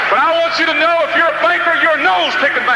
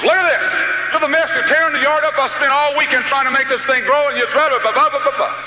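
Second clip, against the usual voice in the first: a dad scolding his son, pitched up; lightly voiced angry father; father scolding the boy over the torn-up yard; 4 semitones higher than usual.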